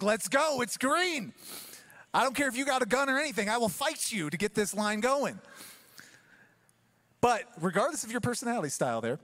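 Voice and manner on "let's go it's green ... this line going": impatient driver. Retold or imitated. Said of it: "And you're like".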